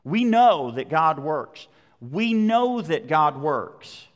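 slow, drawn-out stress on KNOW; KNOW held long and strong, then falling; emphatic repetition. Real, not acted. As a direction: hammer home KNOW, stretching it out. Preacher hammers home a repeated line.

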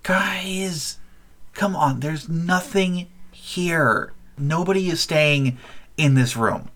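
put-on a nervous kid hushing the others; halfling kid voice. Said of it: "The halfling says to one of the others".

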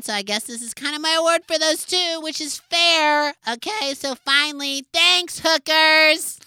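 self-adoring award speech; vain acceptance speech. Acted. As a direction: bask in the applause.

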